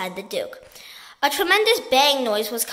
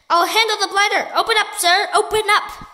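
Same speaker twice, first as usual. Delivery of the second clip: louder, higher furious bellow; angry bellow; 7 semitones higher, 5 dB louder than usual. A narrator's reading. Duke ordering the pelican to open up, bellowing. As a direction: roar orders at the bird.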